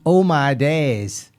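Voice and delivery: slow, drawn-out Manchester "Oh my days"; Manc accent. Retold or imitated. Mimicking Frimpong's interview catchphrase in a Manchester accent. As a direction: imitate a young footballer's Manchester accent. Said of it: "who's got a Coronation Street accent".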